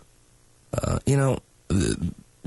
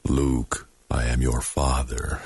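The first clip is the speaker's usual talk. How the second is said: a little lower and slower, heavy menacing father line; forced low movie villain; 4 semitones lower, slower than usual. Shown as a demonstration. Host showing what a forced low voice sounds like, mock menacing. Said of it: "if I wanted to force my voice low, I could".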